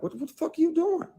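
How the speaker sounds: high, loud retold yell of alarm. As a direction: shout it like you're checking her hard. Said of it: "checked her, like".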